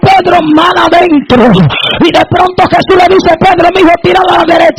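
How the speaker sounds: driving, shouted sermon delivery; full-force preaching. Real, not acted. Preacher retelling Pedro and the nets to the congregation, full-force preaching.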